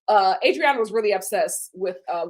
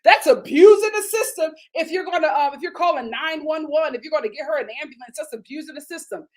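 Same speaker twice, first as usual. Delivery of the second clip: mock husband lecturing; 5 semitones higher, 5 dB louder than usual. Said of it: "he was like".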